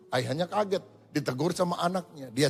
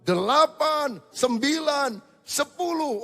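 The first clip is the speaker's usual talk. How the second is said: straining count; 8 semitones higher, much slower than usual. Retold or imitated. Final push-ups counted.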